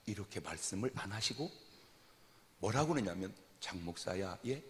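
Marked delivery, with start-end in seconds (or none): 3.6-4.6 느리고 낮게 묻기; 목사를 부르며 천천히 묻듯; 조용한 하나님의 물음. Retold or imitated. 하나님의 질문을 재연. (느리고 조용한 물음)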